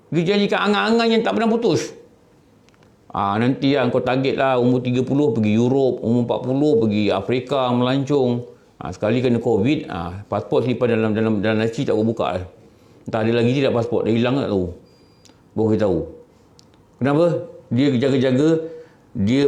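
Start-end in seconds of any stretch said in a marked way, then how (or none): 3.1-14.7 lower, easy persuading tone; tempting voice of desire. Acted. Desire luring the young with travel plans, low and coaxing. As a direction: sell the dream, low and unhurried.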